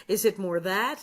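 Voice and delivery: ordinary talk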